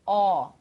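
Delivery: Ó with lips rounded wide and open; Ó com bico grande; open Ó, big pout. Shown as a demonstration. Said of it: "Ó, bico grande".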